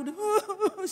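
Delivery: high mock boo-hoo; brief hammed-up weeping noise; imitated crying. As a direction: imitate a child sobbing. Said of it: "si Poltak udah nangis".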